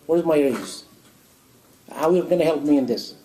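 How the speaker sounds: mock a lazy man nagging God for a raise; demanding complaint. Lazy worker demanding a promotion from God, loud and impatient. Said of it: "But don't stay home and say".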